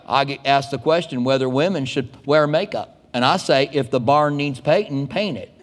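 lightly imitated super country accent; a hint of super country radio preacher; J. Vernon McGee. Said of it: "he sounded super country".

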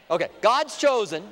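loud but calming; reining it in a little. Real, not acted. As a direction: still loud but steadier, stress on gods. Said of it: "trying to calm myself down".

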